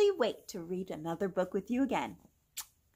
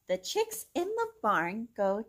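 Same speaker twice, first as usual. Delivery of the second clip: bright, singsong storybook read; gentle storytime reading voice; reading to children. Acted. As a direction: read it aloud to little kids. Reads picture book to children.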